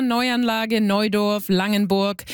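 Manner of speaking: Neuanlage, Neudorf, Langenburg said as German words; German vowels, with Neu as "noy" in Neuanlage and Neudorf; German pronunciation. Shown as a demonstration. Host lists towns as known in Germany, German pronunciation of Neuanlage, Neudorf, Langenburg. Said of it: "Growing up in Germany".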